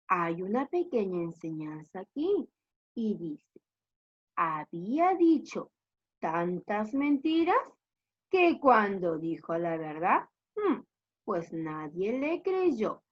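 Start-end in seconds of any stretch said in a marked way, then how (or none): 4.4-13.0 measured reading with pauses between phrases; story narration. Acted. Teacher reads the moral to pupils, measured storytelling.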